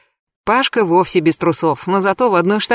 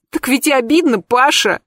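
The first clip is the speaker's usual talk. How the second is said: mumbling wail; 6 semitones higher than usual. Acted. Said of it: "промычала Анька".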